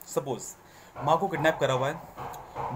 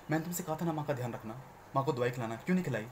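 scolding little brother; 3 semitones lower, 6 dB quieter than usual. Shown as a demonstration. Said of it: "वो मेरा भाई है".

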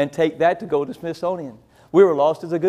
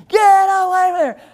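lady yelling; 12 semitones higher, 5 dB louder than usual. Retold or imitated. Lady rushes at them yelling.

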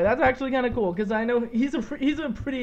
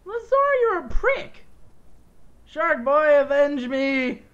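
hammy dying plea; milk the dying words slowly; overacted death scene; 2 semitones higher, slower than usual. Dying, hams up last words.

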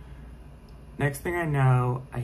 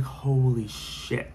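stunned disbelief; much slower than usual. Retold or imitated. Realizes intruder could climb in.

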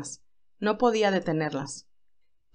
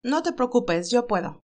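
cheerful Candy. Acted. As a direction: lift the voice for lively young Candy. Candy voiced by reader.

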